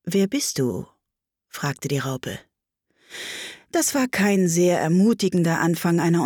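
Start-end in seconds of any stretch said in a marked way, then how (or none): 0.0-0.9 a touch of languor; languid, slow voice. A narrator's reading. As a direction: let the question drift out languidly. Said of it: "mit schmachtender, langsamer Stimme".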